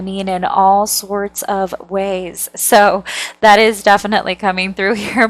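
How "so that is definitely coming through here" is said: laughing. Real, not acted. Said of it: "I can't stop laughing".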